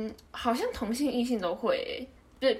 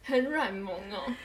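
talking doll; 3 semitones lower, 3 dB quieter, slower than usual. Shown as a demonstration. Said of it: "软萌奶音轻轻说话".

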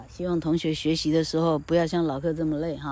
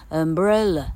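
"umbrella" with the middle "bre" punched louder; stress on BRE; 4 dB louder than usual. Shown as a demonstration. Teacher showing stressed and relaxed syllables, stress on BRE. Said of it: "花了muscle的力气让声音飙高".

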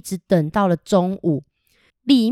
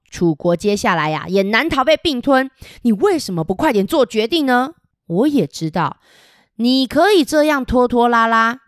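forceful speech. Acted. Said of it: "非常大声的说".

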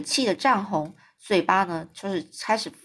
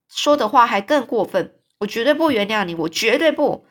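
raised, louder indignant protest; 3 semitones higher, 3 dB louder than usual. Acted. Anne refusing to forgive Mrs Lynde, indignant and louder. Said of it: "这句话是那个安说的".

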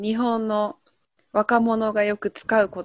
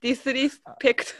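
laughing repeat; 3 dB quieter, faster than usual. Shown as a demonstration.

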